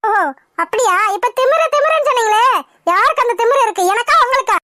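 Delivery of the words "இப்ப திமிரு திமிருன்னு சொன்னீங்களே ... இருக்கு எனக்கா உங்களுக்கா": higher and sharper, pressing him; angry retort. Acted. Wife angrily throwing husband's word back at him. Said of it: "இப்ப எதுக்கு நீ கத்துற".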